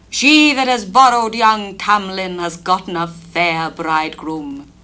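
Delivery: a bitter queen declaring her loss; Queen of Fairies. Acted. Fairy Queen speaking from the broom, a hint bitter. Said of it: "up and spake the Queen of Fairies".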